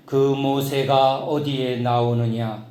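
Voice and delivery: slow, weighty, lightly voiced divine question; a hint of a grave baritone Lord asking slowly; baritone voice of God. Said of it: "중저음 바리톤이에요". (느리고 묵직한 중저음 주님의 음성)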